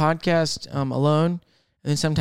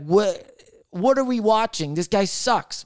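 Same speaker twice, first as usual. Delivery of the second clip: slow, higher-pitched scoffing disbelief; mock disbelief; 4 semitones higher, slower than usual. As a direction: mimic a viewer baffled by a bad dancer. Mock reaction to bad dancer.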